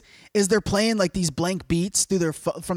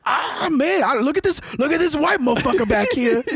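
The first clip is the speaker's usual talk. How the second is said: excited mock taunt; 6 semitones higher than usual. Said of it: "he goes".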